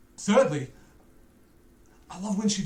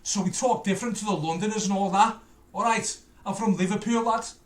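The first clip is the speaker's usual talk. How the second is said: light Scouse demonstration; Liverpool accent; 2 semitones higher than usual. Shown as a demonstration. Showing Americans his hometown talk, Liverpool accent. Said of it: "somewhere called Liverpool, where everybody talks like this".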